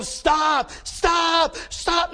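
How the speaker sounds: high, urgent repeated shout; screaming warning. Retold or imitated. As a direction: yell to halt a driver. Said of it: "He's just screaming".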